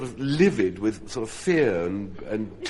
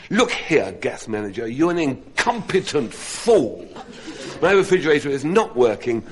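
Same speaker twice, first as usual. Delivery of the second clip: louder, higher hammed-up indignation; mock indignant anger; 4 semitones higher, 5 dB louder than usual. Meek husband rehearsing a complaint to the gas manager, mock angry. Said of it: "Get angry".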